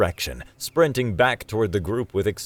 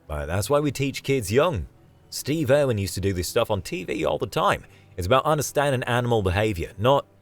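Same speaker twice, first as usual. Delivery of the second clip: higher, eager justification; Australian guide insisting it's fine; keen, hurried explaining; defensive Aussie David; 5 semitones higher than usual. Acted.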